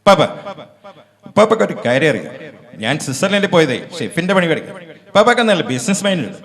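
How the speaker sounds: lightly voiced young hero from Ustad Hotel; a hint of Dulquer talking to his grandfather; Dulquer Salmaan impression. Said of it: "Dulquer സൽമാന്റെ ശബ്ദം ഞാനൊന്ന് അനുകരിക്കാൻ". (ദുൽഖർ സൽമാന്റെ ശബ്ദ അനുകരണം)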